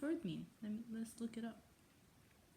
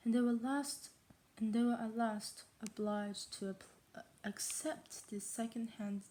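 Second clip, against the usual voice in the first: attempted posh British accent; English accent; 3 dB louder than usual. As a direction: read it in a shaky English accent. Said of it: "How is my English accent this bad?".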